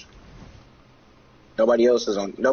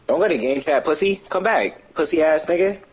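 high, mocking taunt; 4 semitones higher than usual. Real, not acted. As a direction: jeer at him as he leaves. Taunting player leaving chat.

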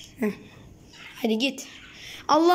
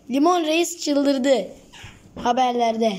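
mock headline; slower than usual.

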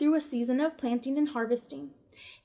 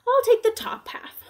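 whisper, drowsy and higher; whispered sleepy bear; 10 semitones higher, 5 dB louder than usual. Acted. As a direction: breathe it out half asleep.

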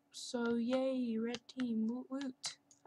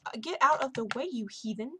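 annoyed shout; 7 dB louder than usual. Real, not acted. Player blocking her ore.

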